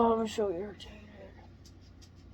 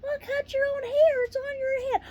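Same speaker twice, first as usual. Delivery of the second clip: higher pitched mock scolding, a hint of a know-it-all; mock critic voice; 14 semitones higher than usual. She answers imagined critics with a higher mock scold. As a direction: toss off the obvious advice in a sing-song.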